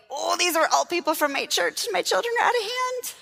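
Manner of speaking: mock fretting, pitch climbing high; embarrassed panic. Mother before people from her church, mildly panicked climbing voice. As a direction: let the worry rise to a high pitch.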